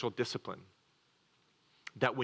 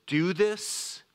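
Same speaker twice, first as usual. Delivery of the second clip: higher, louder divine command; commanding God; 8 semitones higher, 4 dB louder than usual. Retold or imitated. God giving Noah an order, a higher, louder command. God's command voiced in sermon.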